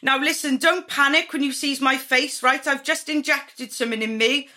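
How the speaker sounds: hammed-up breezy woman calling out; woman with the needles greeting her client; Botox woman voice. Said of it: "she's like".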